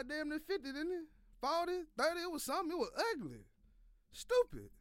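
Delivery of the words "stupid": exasperated. Real, not acted. Exasperated at team's blowout loss.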